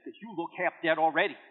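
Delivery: lightly voiced wife, dry punchline; wife's deadpan punchline. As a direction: hand her the punchline dry.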